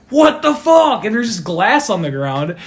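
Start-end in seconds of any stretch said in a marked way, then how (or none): 0.1-1.0 higher and louder put-on outrage; retold furious shout; mock angry yell. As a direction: bark it like the angry worker. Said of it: "he's like".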